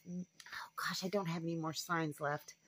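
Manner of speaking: whispered to herself, dropping to nothing; a muttered aside meant for nobody. Real, not acted. Realizes she has no signs left.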